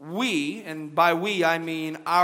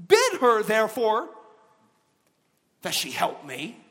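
raised, slow complaining plea; complaining Martha; 2 semitones higher than usual. Acted. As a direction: whine it like an overworked sister.

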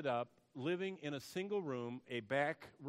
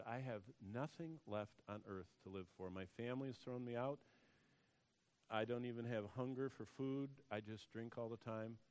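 low, subdued, hopeless words; retold despair; 3 semitones lower, 6 dB quieter than usual. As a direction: softly voice someone who has given up.

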